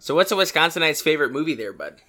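put-on Wisconsin accent, playful setup; joke Wisconsin accent. Co-host setting up the Air Bud joke, joke Wisconsin accent. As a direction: pose the riddle in mock-Wisconsin talk. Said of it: "but with this accent".

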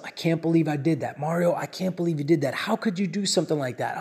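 quiet, muttered self-blame under his breath; a hint of a man scolding himself; self-scolding mumble. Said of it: "I'm literally mumbling to myself".

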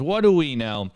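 sarcastic what do we know. Acted. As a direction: play dumb, dripping with irony. Repeats sarcastic tagline.

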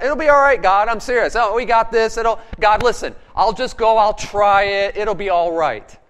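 coaxing God into a bad plan, lightly played; mock pleading with God. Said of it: "maybe we argue that".

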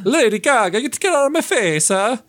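put-on over-the-top character rant, Italian accent; shrill mock rant. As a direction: screech it like a spoiled brat. Mocking Jared Leto's character.

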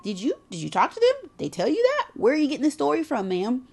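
quick, rising disbelieving questions; sassy, high-pitched cross-examination; incredulous questioning. Retold or imitated. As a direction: quiz them in rapid-fire disbelief. Mock interrogating a worrier.

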